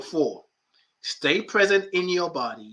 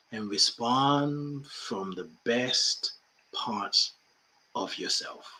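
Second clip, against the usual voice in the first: slow, drawn-out "and respond from the best parts of yourself"; slower than usual. Shown as a demonstration. Teacher correcting herself, saying it slowly. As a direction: stretch every word out. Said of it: "slow down".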